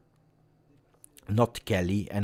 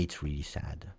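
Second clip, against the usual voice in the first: usual speaking voice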